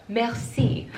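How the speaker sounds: second go at a French "Merci"; French accent retry. Shown as a demonstration. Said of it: "That's the worst French accent ever".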